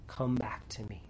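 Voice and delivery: soft, breathy whisper of God's call; gentle whisper. Retold or imitated. Pastor voicing God's small voice calling the sinner back, whispered. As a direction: whisper it tenderly, like a quiet call home. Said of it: "It's gentle, but it's sincere".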